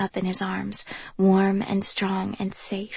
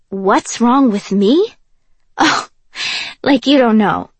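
bitter retort; 3 semitones higher, 6 dB louder than usual. Acted.

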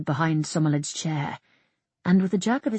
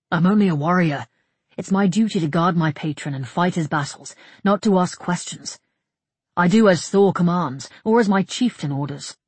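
slightly forceful, defensive warrior voice; lightly voiced proud soldier; dutiful warrior; 6 dB louder than usual. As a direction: insist on duty with firm emphasis.

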